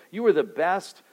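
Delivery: lightly voiced pastor handing out cash; generous pastor. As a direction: lightly play the beaming benefactor. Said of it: "I come up to you after the service and say".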